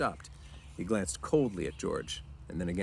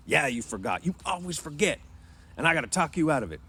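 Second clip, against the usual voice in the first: rising, higher-pitched scolding; exasperated George; 7 semitones higher, 4 dB louder than usual. A narrator's reading. Man scolding his forgetful friend, exasperated. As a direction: throw his excuse back at him.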